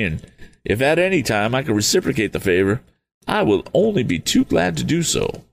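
a fluttery eccentric, relieved; eccentric Mr Damon. Acted.

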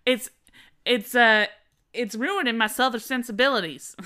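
hammed-up Southern belle. Host mocking a fireworks complaint, Southern belle accent. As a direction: play an affronted Southern belle. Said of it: "making her a Southern Belle".

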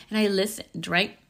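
choking mid-sentence; choking on a drink. Real, not acted. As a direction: talk through a choke. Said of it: "I'm choking over here".

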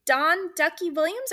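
high, eager, tumbling question; starstruck excitement. Retold or imitated. Fan gushing at the painter she just recognized, excited and high. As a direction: gush at him like a starstruck fan.

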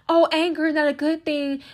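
high, put-on voice of gentle scolding; mock admonishing. Women being told not to feel anger, mock admonishing. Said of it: "Women are told".

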